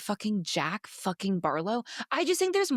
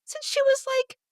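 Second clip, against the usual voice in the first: indignant rant; 9 semitones higher, slower than usual. Retold or imitated. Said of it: "meanwhile, I'm like".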